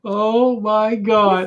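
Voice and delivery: slow, high, drawn-out shout; drawn-out exclamation. Real, not acted. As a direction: stretch it out in disbelief. Reacting to the house bit.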